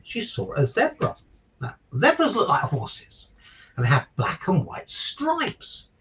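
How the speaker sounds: put-on bright, lilting picture-book narration for children; story reading. A narrator's reading. Father reading a giraffe story to listeners, lilting storybook narration. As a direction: read it like bedtime story time for little ones.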